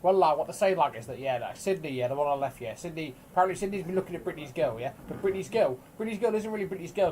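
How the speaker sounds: gossipy Cockney troll chatter; rapid Cockney gossip, barely put on; Cockney accent. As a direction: dish the troll gossip like a Cockney market trader. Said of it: "I like doing the Cockney accent".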